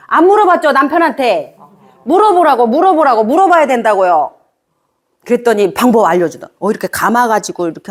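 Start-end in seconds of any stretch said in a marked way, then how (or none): 0.1-4.3 excited urging. Real, not acted. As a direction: urge them on with rising energy. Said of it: "urging audience to ask". (청중에게 신나게 재촉하듯)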